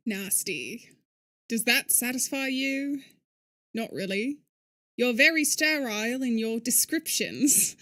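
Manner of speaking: put-on British accent for game dialogue; casual imitation British. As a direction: act the exchange in amateur British. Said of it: "this is my British accent".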